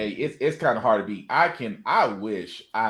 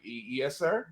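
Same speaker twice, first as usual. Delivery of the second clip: swooning woman; 4 semitones lower, 9 dB quieter, slower than usual. Retold or imitated. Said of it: "the chest kinda comes up a little bit like".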